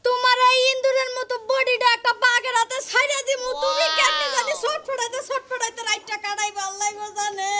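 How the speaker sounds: mildly wailed lament; mock crying lament. Wife explaining her tears to the groom, mock crying lament. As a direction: lament it as if weeping, starting strong and easing off. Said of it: "তুমি কান্দো কেন".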